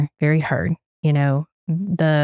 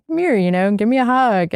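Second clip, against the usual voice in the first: higher-pitched imitation of a child asking; imitating upset son; 6 semitones higher than usual. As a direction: lightly voice a little son's plea, pitched up. Voicing upset son wanting a hug.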